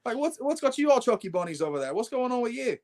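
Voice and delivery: mock baffled questioning, high-pitched; retold bafflement. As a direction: pitch it way up, acting out puzzlement. Retelling his puzzled reaction to laughing mate.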